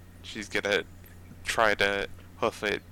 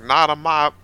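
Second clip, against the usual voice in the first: heroic cry; 4 semitones higher, 10 dB louder than usual. Acted. Prairie dog heroic stand.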